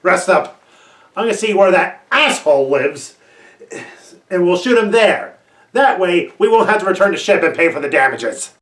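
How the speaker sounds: loud, irate orders; angry shouting. Acted. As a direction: shout orders with open irritation. Barking orders at companions.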